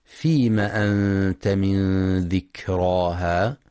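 slow, melodic tajwid chanting; Quran recitation. Shown as a demonstration. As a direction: chant the verse slowly, drawing out the vowels. Recitação do versículo.

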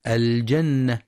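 الجنة with a on the jim; wrong fatha. Shown as a demonstration. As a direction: demo the mistake "الجنة" as aljanna. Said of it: "بفتح الجيم". (فتح الجيم خطأ)

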